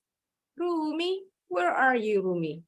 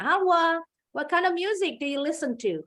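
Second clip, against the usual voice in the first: fast, breezy question to a student; teacher playing someone asking Halwa about her music; quick casual question; 5 semitones higher than usual. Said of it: "Contoh umpama Halwa ditanya".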